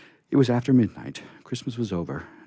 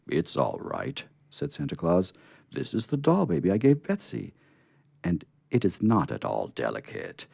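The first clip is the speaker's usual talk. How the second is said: Santa voice; 5 semitones higher, 3 dB louder than usual. Acted. Santa reassuring the scarecrow.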